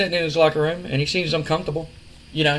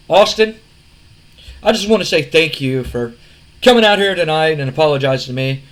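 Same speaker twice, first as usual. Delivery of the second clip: cocky promo voice; 4 dB louder than usual. Retold or imitated. Retelling wrestling promo, Shane speaking.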